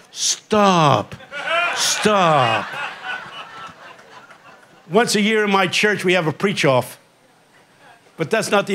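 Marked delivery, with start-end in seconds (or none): 0.1-2.6 mock white crowd stop. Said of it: "They yell".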